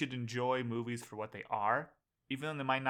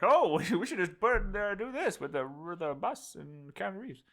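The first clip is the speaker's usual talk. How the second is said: studio exec voice; 6 semitones higher than usual. Retold or imitated. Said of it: "and they'd be like".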